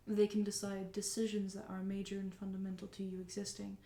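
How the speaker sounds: soft, dropping to a whisper; quiet, dutiful machine; robot voice. Acted. GM voices Bind explaining.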